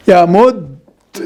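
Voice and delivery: یا مد said very slowly with the ی held and doubled; slow tajweed drill of یا مد; doubled ya demo. Shown as a demonstration. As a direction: stretch یا مد, holding the ی. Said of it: "دو، ایک ساتھ نہیں آپ کو آواز نکالنی ہے".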